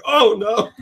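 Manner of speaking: high mock dismay; hammed-up horror; imitated horrified dad. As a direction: voice a dad appalled at the mess. Dad's reaction, retold.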